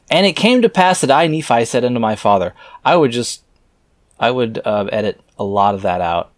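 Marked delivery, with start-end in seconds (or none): 0.1-2.5 rushed reread. Acted. Rereads the verse fast.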